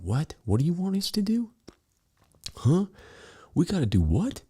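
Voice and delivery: high, baffled cries of what; confused bystanders. Retold or imitated. People in airport line baffled by screaming man, high confused cries. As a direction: imitate bewildered people in line. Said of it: "people are going".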